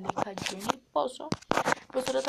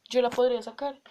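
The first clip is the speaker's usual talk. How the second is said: frog voice; 8 dB louder than usual. Acted. Frog offers to help.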